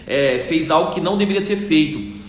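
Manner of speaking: a monk rebuking his companion for carrying the woman; indignant monk. Acted. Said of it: "E ele começou a falar assim".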